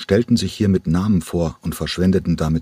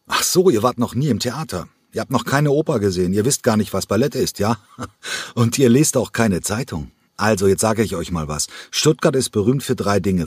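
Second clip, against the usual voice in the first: in Rage; 4 semitones higher than usual. Acted. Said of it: "geriet Mimis in Rage".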